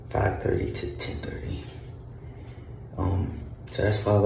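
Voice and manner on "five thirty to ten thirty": unvoiced whisper of the times; whispered repeat. Shown as a demonstration. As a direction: breathe the words without voice.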